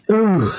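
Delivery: a winded ooh; breathless ooh exhale. Real, not acted. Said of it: "I'm freaking out of breath".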